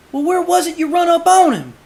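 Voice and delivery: men questioning the judge; rough questioner. Acted. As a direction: press him with a rough voice. Man presses the judge.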